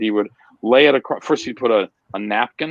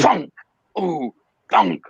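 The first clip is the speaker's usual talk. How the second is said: knife thunk sound; slower than usual. Retold or imitated. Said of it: "you could literally hear it going".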